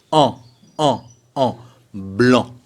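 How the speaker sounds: isolated nasal "en", then "blanc" without k; nasal AN demonstrated. Shown as a demonstration. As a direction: repeat the nasal vowel, then put it in "blanc". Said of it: "C'est blanc".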